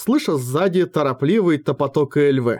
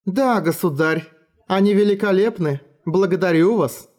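put-on a little girl who sounds uncanny; uncanny grown-up words from a small girl; eerie child voice; 4 semitones higher than usual. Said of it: "столь жутко звучавшего в устах маленькой девочки".

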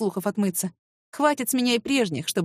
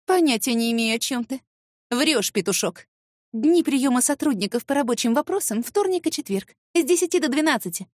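crisp and businesslike; 3 semitones higher than usual. Acted. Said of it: "отчеканила я профессионально".

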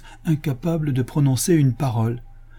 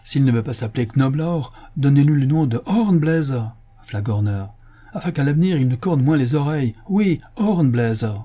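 raised, exasperated pronouncement; irritated order; 5 semitones higher, 3 dB louder than usual. Acted. Commissioner fed up with Absalom's begging, irritated. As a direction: dismiss the pest with an insulting name.

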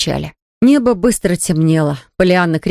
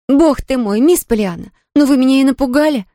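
out of breath; 7 semitones higher than usual. Acted. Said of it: "запыхавшись".

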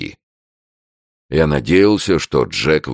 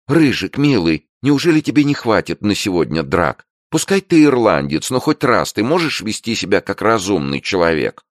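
high, coaxing plea; lightly voiced girl begging her boyfriend to stop fighting; pleading girlfriend; 8 semitones higher, 3 dB louder than usual. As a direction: soften him up, begging.

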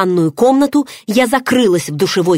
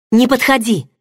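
higher, sharp cry to keep him away; frightened exclamation; 6 semitones higher than usual. A narrator's reading. Heroine crying out to Varan not to come near, frightened. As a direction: cry out to stop him coming closer. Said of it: "воскликнула я".

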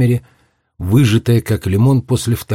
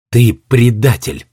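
tossed off coldly; 2 semitones higher, slower than usual. Acted. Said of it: "бросила девочка".

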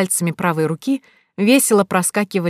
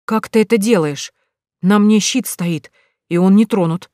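shocked; 2 semitones higher, 4 dB louder than usual. Acted. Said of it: "удивления, переходящего практически в шок".

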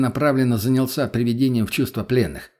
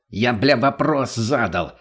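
slow, menacing, spaced-out bark; slow threatening snarl; slower than usual. Acted. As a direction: spell each word out as a threat. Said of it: "рявкнул наркоман".

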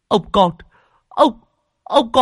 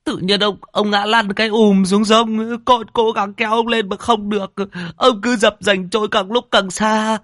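high, loud tearful account; frightened servant; 12 semitones higher, 5 dB louder than usual. A narrator's reading. Servant tells mistress how master fell in river, frightened. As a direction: shaken boy telling it all.

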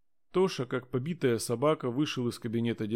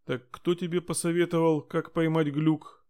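stern; 5 semitones higher than usual. Acted. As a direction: interrogate the girl sternly. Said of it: "строго спросила инспектор".

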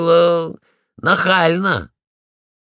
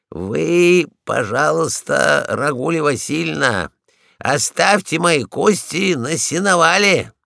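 stern. Acted. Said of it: "строго сказал я ей".

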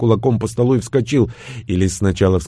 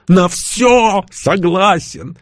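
slow emphatic agreement; 8 semitones higher, much slower than usual. Acted. Igor agrees to everything.

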